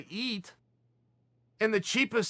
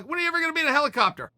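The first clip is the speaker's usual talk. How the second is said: excited; 7 semitones higher, 3 dB louder, much faster than usual. Real, not acted. Amazed rhetorical question to audience.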